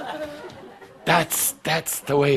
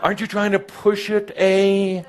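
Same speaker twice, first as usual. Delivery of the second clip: high incredulous masters; 10 semitones higher than usual. Retold or imitated.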